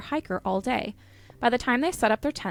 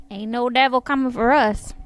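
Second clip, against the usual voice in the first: loud, playful defiance; defiant call-out; 3 semitones higher, 7 dB louder than usual. Pretend. Listener answers the devil story, defiant call-out. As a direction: call it out to ward off evil.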